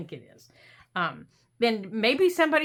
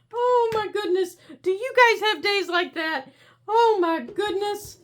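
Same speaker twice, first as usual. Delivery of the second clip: higher, louder flustered exclaiming; exasperated; 10 semitones higher, 6 dB louder than usual. Real, not acted. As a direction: throw your hands up, amused.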